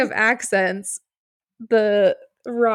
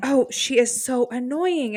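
drawn-out, higher mock complaint; annoyed fans; 4 semitones higher than usual. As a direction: imitate fans fed up with her. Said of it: "were so annoyed by her".

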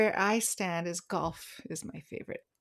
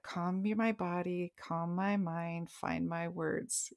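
softer, slow self-talk; calming self-talk; 6 dB quieter, slower than usual. Shown as a demonstration. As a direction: talk yourself down gently and slowly. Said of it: "I actually say that".

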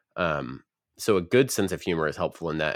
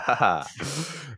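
slow, deliberate mock laughter; hammed-up fake chuckle; 5 semitones higher, slower than usual. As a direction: spell out each ha like a put-on laugh. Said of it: "That was a fake laugh".

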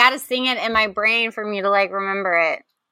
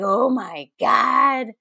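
hooked gasp; much slower than usual. Retold or imitated. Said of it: "I was like".

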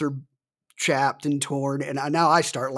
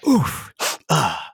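mock pained gasping "Oof, ah"; pained oof from burning lips; 3 dB louder than usual. Waiting tables with burning lips, pained oof. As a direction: exhale the heat out like your mouth is on fire. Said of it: "every couple of seconds we're going".

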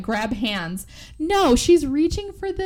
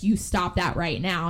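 stern; 4 semitones lower than usual. Retold or imitated. Scolding captive.

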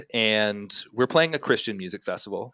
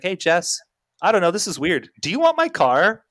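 higher voice, climbing to the question; imitated friend's offer; 8 semitones higher, 6 dB louder than usual. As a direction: imitate a friend making an odd offer, pitched up. Voices friend's phone call offering car.

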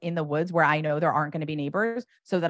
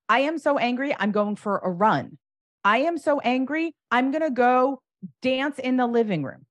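higher and louder, venting out loud; showing anger; 7 semitones higher, 4 dB louder than usual. Shown as a demonstration. Parent modeling healthy anger to a child, higher, louder and venting. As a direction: announce your anger with energy. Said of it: "you have to model what anger looks like".

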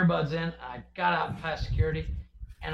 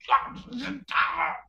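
mock fed-up cry rising much higher; exasperated outburst; 11 semitones higher, 3 dB louder, much slower than usual. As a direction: retell a parent's snapping point, climbing high. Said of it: "every once in a while I'm just like".

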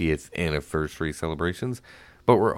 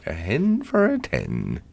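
auctioneer. Retold or imitated. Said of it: "the hens and Quit your clucking".

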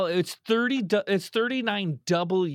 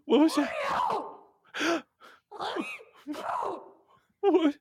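alarmed; 9 semitones higher than usual. Acted. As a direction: jump at a strange noise. Thump from the car.

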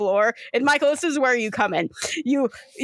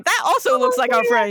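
put-on Southern Florida accent; Southern Floridian gator; 4 dB louder than usual. Gator spotting a familiar face, Southern Floridian accent. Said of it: "the gators are the full Southern Floridian".

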